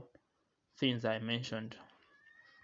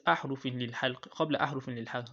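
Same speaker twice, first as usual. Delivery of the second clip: recited verse; much faster than usual. Shown as a demonstration. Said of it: "So it says".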